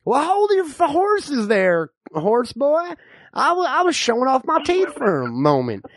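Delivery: lightly voiced old Texan codger; old man. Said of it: "I'm the old man".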